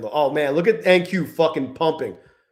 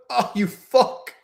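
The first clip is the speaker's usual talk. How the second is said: laughing curse; 4 semitones higher, slower than usual. Real, not acted. Laughing at the chart's move.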